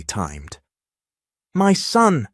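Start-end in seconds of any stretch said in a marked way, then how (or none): 1.5-2.3 loud, high sobbing cry. Acted. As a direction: wail it through sobs. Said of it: "she sobbed".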